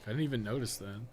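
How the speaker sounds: ordinary talk, nothing marked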